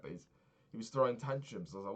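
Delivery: ordinary delivery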